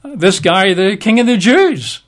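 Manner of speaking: a hint of a governor offering a deal; Pilate bargaining. Pilate offering the crowd a prisoner, lightly voiced. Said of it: "he said".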